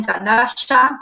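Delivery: Candaya with a "sh" sound for the y; porteño pronunciation of Candaya. Shown as a demonstration. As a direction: say Candaya slowly, y as "sh". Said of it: "como decimos los porteños".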